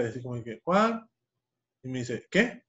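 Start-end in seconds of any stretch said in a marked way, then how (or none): 0.6-1.0 high, loud puzzled "¿Cuál?"; mom's puzzled question. Retold or imitated. Mom voiced, asking again. 2.3-2.6 high, loud puzzled "¿Cuál?"; mom's puzzled question. Retold or imitated. Mom voiced, asking again.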